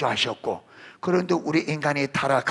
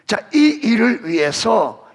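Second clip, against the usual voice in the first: usual speaking voice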